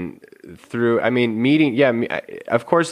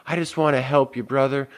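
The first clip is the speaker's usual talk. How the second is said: mock nice concern; 3 semitones higher than usual. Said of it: "Oh, we'll do it nicely".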